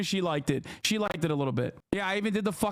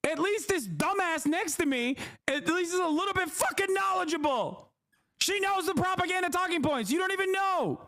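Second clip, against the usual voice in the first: mock sneer; 7 semitones higher than usual. Mocking reenactment of his own rant.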